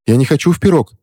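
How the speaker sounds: put-on high frightened child's cry; a boy pleading not to be baked; scared boy. Boy protests to the witch, high and frightened. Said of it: "заявил мальчик".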